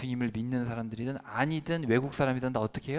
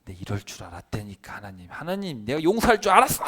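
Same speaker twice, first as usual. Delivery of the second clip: indignant Jonah; 5 dB louder than usual. Retold or imitated. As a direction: play Jonah grumbling at God, then snapping. 요나 voiced complaining to God. (하나님께 투덜대다 높고 크게 터뜨리는 요나)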